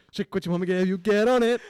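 very high, loud botched Irish; horrible Irish accent. Shown as a demonstration. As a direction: wildly overdo a bad Irish accent. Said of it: "That's horrible".

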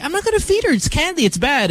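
very high, exaggerated assurance easing downward; mock promise. Dad retelling his reply to grandmother, mock promise.

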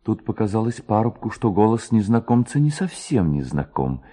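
ordinary delivery, nothing marked

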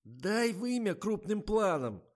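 high, slow squeak; squeaky. A narrator's reading. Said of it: "запищал Жорик".

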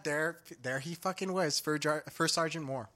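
ordinary delivery

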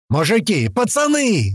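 high holler, rising on the second word; yelled call. A narrator's reading. Слива calling to his trapped mates, yelling. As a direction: call out loudly for your mates. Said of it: "заорал рядом со мной Слива".

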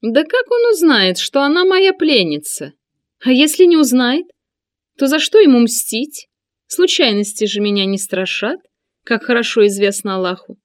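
high, loud smirking eunuch. A narrator's reading. Sinan smirks and replies.

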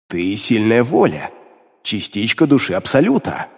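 lightly voiced demon, calm. A narrator's reading. Demon explains.

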